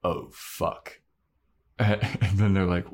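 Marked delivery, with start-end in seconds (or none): 0.0-1.0 whispered oh no; hushed whispered curse; Anya, dismayed. Acted. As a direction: breathe it out in dread, caught. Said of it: "And Anya is like".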